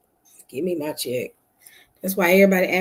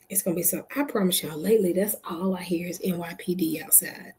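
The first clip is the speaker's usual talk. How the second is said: whisper; 6 dB quieter than usual. Real, not acted. Police outside at night.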